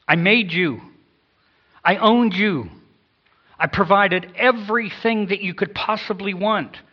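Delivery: God speaking judgment to mankind, loud then hushed; righteous judgment. Acted. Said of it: "in a holy, just, righteous attitude".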